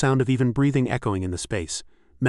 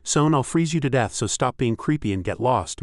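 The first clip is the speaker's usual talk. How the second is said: angry shout; 2 semitones higher than usual. Acted. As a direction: snap a threat at the pest. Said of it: "Melon shouted angrily".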